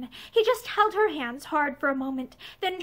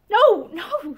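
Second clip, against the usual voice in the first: quick, higher, louder denial; alarmed cry; 5 semitones higher, 6 dB louder than usual. A narrator's reading. Woman denies being struck, alarmed higher cry. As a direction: cry out to head off his anger. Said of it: "she cried out quickly".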